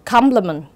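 "compliment" said COM-pli-ment; first-syllable stress. Shown as a demonstration. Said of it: "có dấu nhấn ở âm tiết thứ nhất". (nhấn âm tiết đầu của "compliment")

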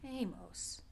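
breathy whispered name. Acted. Recognizing Amos in the dark, whispered. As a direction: whisper his name in surprise.

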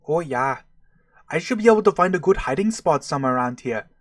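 lightly put-on Minnesota accent; attempted Minnesota accent. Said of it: "my best imitation of a Minnesota accent".

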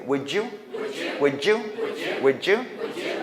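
"Would you" as wou-joo; rising, linked "Would you?". Shown as a demonstration. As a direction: blend "Would you" with a J sound. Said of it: "연습해볼게".

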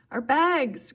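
high, loud alarmed remembering; sudden realization. A narrator's reading. Grover realizes the bags were left behind, alarmed. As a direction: blurt it as it dawns on you. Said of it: "Grover realized".

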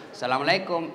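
soft, lilting phone greeting, drawn sweetly; languid swoony greeting. Retold or imitated. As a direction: coo it like a girl charming her boyfriend. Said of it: "jangan kau mendayu-dayu mensahdukan suaramu".

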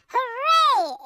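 a storybook hooray; excited exclamation. A narrator's reading. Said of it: "he exclaimed".

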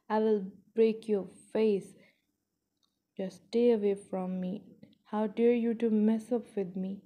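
loud, indignant telling-off; angry threat. Acted.

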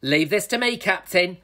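high, determined call; yelling. A narrator's reading. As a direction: step in boldly to take charge. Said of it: "yelled Barbara".

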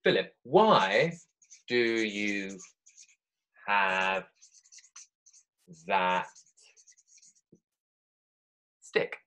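put-on slow, drawn-out royal Queen accent. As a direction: ask it slowly like the Queen. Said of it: "I'll get that accent right".

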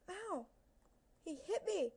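high, loud yelp of protest; pained outcry. Real, not acted. Player hit by an enemy, indignant high cry. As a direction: cry out as if struck.

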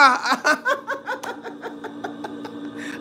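a high, helpless burst of laughter; squealing laugh after the insult. Real, not acted. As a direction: crack up at your own joke.

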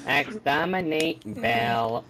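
slow robotic Dalek drone. Pretend. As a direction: drag it out like a robot. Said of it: "permanently talk like a robot".

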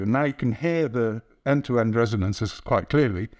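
talking into a long tube; echoing tube resonance voice; through a tube. Shown as a demonstration. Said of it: "I'm gonna speak into this tube".

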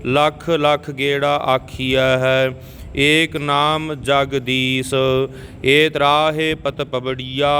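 careful teaching recitation in Punjabi; scripture recitation. Shown as a demonstration. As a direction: recite evenly, drawing out the long vowels.

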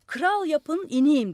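high, very loud demand; shouted demand. A narrator's reading. Madman demanding a crown from the roof, shouting. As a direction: belt it down from above.

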